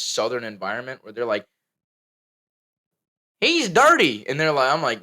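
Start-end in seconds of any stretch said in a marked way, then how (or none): 3.4-4.3 high, loud mocking voice; retold bully jeer. Speaker quoting bullies from a southern childhood, loud mocking jeer. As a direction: mimic a jeering bully, pitched up.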